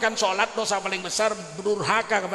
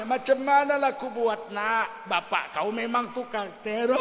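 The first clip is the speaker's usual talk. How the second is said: tearful mother; 3 dB quieter than usual. Retold or imitated. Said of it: "Nangis mamanya".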